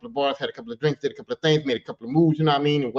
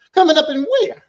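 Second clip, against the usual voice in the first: incredulous high question; 10 semitones higher, 8 dB louder than usual. Retold or imitated. Incredulous reply to invitation.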